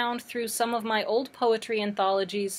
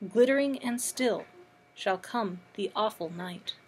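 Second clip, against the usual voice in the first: measured poetry recital with pauses between lines; poetry reading. Acted. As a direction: read the poem aloud, phrase by phrase. Reads a poem aloud.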